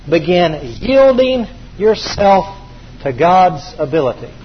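slow, spaced for note-taking; slow dictation. Shown as a demonstration. Preacher dictating priority key number four, slowly. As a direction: say it slowly so they can write. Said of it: "repeated for dictation".

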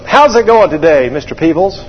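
lightly voiced chipper greeting, lifted at the start; fuel driver's greeting. Fuel truck driver greets pilot, mock-chipper.

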